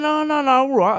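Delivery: high, loud mock protest; hasty backing down. Actor caught out over his own accents, high-pitched retreat. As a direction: imitate someone giving in, pitched right up. Bob backs down when teased.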